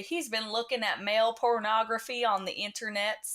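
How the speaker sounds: lightly put-on Southern church gossip; a hint of Southern church lady; Southern accent. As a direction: share a prayer request in a Southern accent. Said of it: "I adopted the Southern accent".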